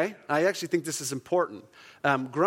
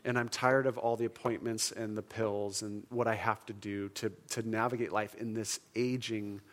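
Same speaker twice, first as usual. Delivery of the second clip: understated weariness, slightly lowered; weary inner groan; 3 semitones lower, 4 dB quieter than usual. Acted. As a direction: voice a tired sufferer, low-key. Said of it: "there's this groan inside of you that says".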